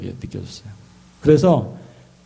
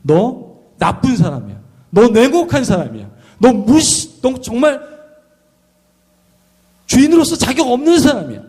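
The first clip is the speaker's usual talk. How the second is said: rising accusation; 10 semitones higher, 3 dB louder than usual. Acted. Servant hurling rising accusations at his master. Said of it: "그 얘기를 하는 거예요".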